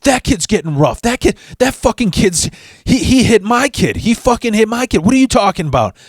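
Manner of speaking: high, screeching angry mom voice; mock shrill yelling mother; angry redneck mom. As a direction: shriek it like a furious trashy mom. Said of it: "she's like".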